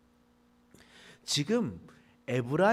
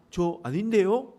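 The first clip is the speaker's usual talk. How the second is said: high, louder nervous denial; mock frightened denial; 6 semitones higher, 8 dB louder than usual. Fleeing man denies being from Gyeongsang to guard, alarmed and loud. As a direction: blurt the denial like you're scared for your life. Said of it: "라고 얘기하는 거예요".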